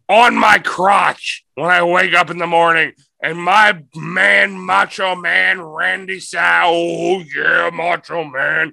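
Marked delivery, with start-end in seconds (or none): 3.2-8.7 Macho Man drawl. Pretend. Macho Man impression in riff.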